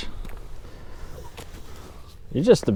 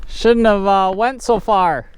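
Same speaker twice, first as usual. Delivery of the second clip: laughing; 9 semitones higher, 4 dB louder than usual. Real, not acted. Laughing at own mistake.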